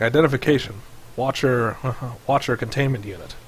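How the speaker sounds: mechanical robot warning; robot security unit voice. Acted. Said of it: "you hear a mechanical voice".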